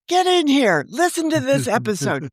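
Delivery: lightly voiced parent calling the kids in; a hint of a parent summoning the family; mock parent calling.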